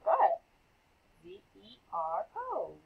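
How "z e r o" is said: spelled out. Shown as a demonstration. Teacher spells the word aloud.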